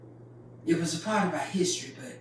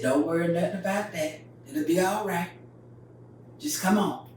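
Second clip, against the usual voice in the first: easygoing, unhurried daddy; calm and easy. Retold or imitated. Daddy calmly reassuring mama, easy and unbothered. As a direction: soothe her without a care. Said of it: "My dad talked just like that ... All calm and easy".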